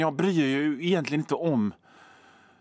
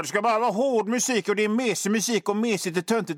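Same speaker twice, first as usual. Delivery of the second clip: lightly voiced snooty metalhead, a bit higher and quick; mock hard rocker; 4 semitones higher, faster than usual. Radio host mocking a traditional hard rocker, mock snooty. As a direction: sneer like a purist headbanger, half-joking. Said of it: "traditionell hårdrockare".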